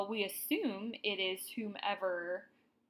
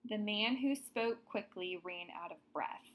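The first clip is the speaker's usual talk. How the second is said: example sentence read out. Shown as a demonstration. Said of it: "Another example".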